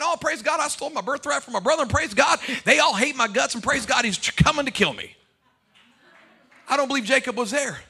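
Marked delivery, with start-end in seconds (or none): 0.0-5.1 mock cheerful. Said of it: "Jacob was happy saying".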